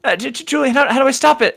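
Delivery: high, stammering panic; panicked stammer. Acted. Panicked woman voiced by GM.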